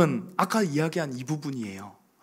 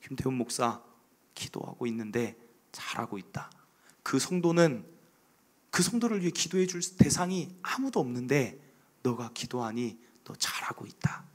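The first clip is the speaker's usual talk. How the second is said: soft whispered encouragement; God's whisper; 6 semitones lower, 6 dB quieter than usual. Acted. God encouraging Pastor Kim Tae-hoon as he prays, in a hushed whisper. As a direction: murmur it close, like a voice in the heart.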